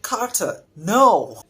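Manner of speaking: high, loud mock character cry; mocking audiobook narrator. Reviewer imitating the narrator's voice for a character, mocking high cry. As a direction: imitate the narrator's overdone high-pitched exclamation. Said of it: "why would you talk like that?".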